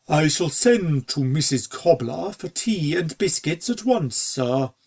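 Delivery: lightly voiced formal butler, slowing at the end; a hint of a dutiful, proper servant; lightly voiced butler replying politely. Butler answers his master.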